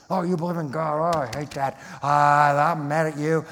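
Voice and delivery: a mild mock of an irritated atheist; mock angry atheist. Preacher imitates an angry atheist scolding a believer, lightly irritated. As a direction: play it half-annoyed, not yet shouting. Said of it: "Now it's an angry atheism".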